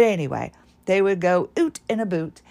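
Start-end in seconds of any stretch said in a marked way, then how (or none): 1.6-2.4 Scottish accent. Shown as a demonstration. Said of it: "that's what we say in our house".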